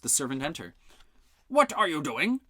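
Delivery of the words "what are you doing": cheerfully. A narrator's reading. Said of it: "Melis asked cheerfully".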